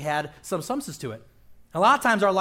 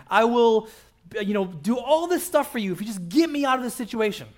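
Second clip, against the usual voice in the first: high, loud, pleading rush of promises; desperate bargaining prayer; 5 semitones higher, 3 dB louder than usual. Retold or imitated. Preacher mimicking a desperate believer bargaining loudly with God. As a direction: beg God like a cornered sinner.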